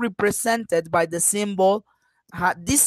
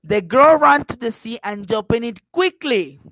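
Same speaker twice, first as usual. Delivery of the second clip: "quickly" set apart and punched at the end; stress on QUICKLY; 3 dB louder than usual. Shown as a demonstration. Teacher showing the next contrast, QUICKLY emphasized. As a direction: save the weight for a firm final "quickly". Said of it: "I am going to emphasize quickly".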